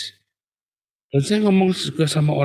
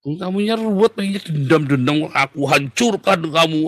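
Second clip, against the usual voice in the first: agitated vengeful mimicry; 4 semitones higher than usual.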